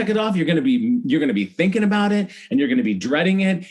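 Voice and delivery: a hint of a bossy mom laying down the law; voicing mom. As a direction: briskly lecture like a no-nonsense mother. Mom lecturing child.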